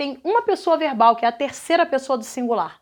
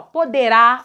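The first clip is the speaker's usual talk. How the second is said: poderá with a strong last syllable RÁ; stress on final RÁ; 4 dB louder, slower than usual. Shown as a demonstration. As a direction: land firmly on the rá in poderá. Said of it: "olha a tonicidade fora do radical".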